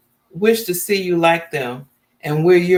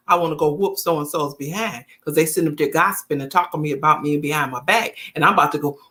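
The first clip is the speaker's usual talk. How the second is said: fired-up wife; 3 semitones lower, faster than usual. Retold or imitated. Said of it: "she telling him the truth".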